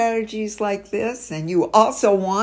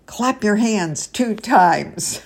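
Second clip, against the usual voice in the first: attention call; 2 semitones higher, slower than usual. Shown as a demonstration. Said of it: "So you say".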